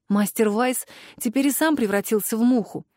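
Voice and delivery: ordinary delivery, nothing marked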